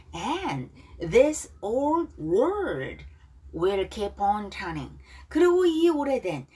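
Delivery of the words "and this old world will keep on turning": slow lyric reading. Shown as a demonstration. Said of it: "발음 따라하기".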